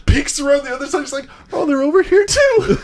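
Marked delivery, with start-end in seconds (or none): 1.5-2.8 imitating Kravitz. Kravitz quoted finding more lemons.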